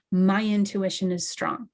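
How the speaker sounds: deliberate, convinced affirmation; with conviction. Shown as a demonstration. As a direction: state it as plain fact like the sky is blue. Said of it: "say that sentence with conviction".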